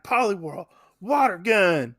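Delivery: lightly Texan battle command; hint of a Texas twang; Texas accent. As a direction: call the move with a slight Texas accent. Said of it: "when did Red get a Texas accent".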